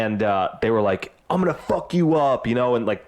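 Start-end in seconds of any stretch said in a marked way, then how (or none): 1.3-2.5 mild mock trash talk, raised pitch. Fighters before the big fight, mock trash talk. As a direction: lightly imitate a fighter's threat. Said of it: "shit talking to each other".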